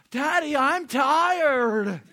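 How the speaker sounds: put-on high, slow whiny little girl. Preacher imitating his daughter whining that she's tired. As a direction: stretch it out like a tired child.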